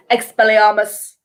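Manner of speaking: imitating Snape, calm and unhurried; a hint of Snape casting calmly; dead chill Snape. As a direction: cast it coolly, no effort at all. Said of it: "he's just dead chill".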